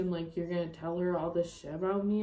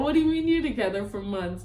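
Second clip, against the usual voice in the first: retold loud outburst; 6 dB louder, faster than usual. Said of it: "I'm literally crying, laughing at you".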